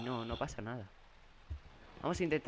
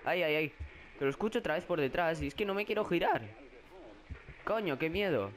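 higher, frightened rush of words; scared; 3 semitones higher than usual. Real, not acted. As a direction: panic at a sound behind. Oye al monstruo detrás. (miedo real, voz más aguda)

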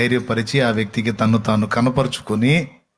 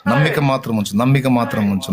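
calm reassurance. Real, not acted. Calm after the shout.

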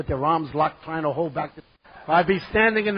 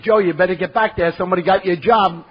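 laughing while talking; 3 semitones higher, 8 dB louder than usual. Retold or imitated. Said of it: "I broke out laughing".

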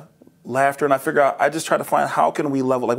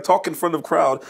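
higher mock Russian accent; playful Russian-accented imitation; imitated Russian accent; 4 semitones higher than usual. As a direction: lightly imitate a Russian speaker dropping articles. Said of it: "taking notes in your accent".

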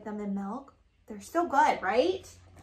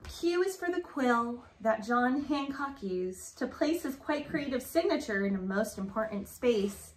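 rhythmic picture-book read-aloud; reading to children; slower than usual. Acted. Reading a rhyming alphabet book to Grace, sing-song read-aloud.

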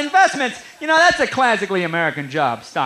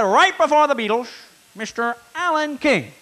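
Ed Sullivan intro; 6 semitones higher than usual. Retold or imitated. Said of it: "Ed Sullivan said".

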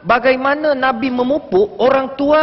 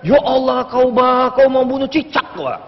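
mock scolding. Elder scolding a youngster over spiky hair, mock exasperation. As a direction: play an elder appalled at a youngster. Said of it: "kita marah sama dia".

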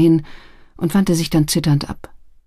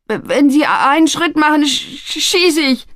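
high, panicky stutter; frightened lad trying to threaten; stammering threat; 10 semitones higher than usual. A narrator's reading. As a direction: stutter on the sh, pitched up. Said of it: "stotterte er".

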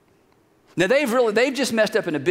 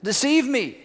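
Eve excusing herself; 2 semitones higher than usual. Acted. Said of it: "And the woman said".

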